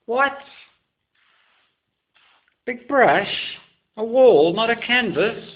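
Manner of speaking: high, loud disbelieving squeals; shocked onlooker. Pretend. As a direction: play a scandalised art snob, pitch way up and loud. Incredulous viewer reacting to his painting.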